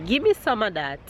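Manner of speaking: Jamaican patois. Shown as a demonstration. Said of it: "The Jamaican expression for today is".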